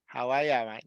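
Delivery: understated Australian greeting; Australian, R dropped. Shown as a demonstration. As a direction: say "are" as "ah", Australian style. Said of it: "don't even pronounce the R".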